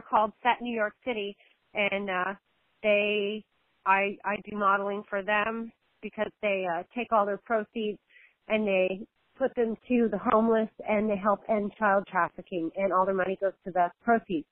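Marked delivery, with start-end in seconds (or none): none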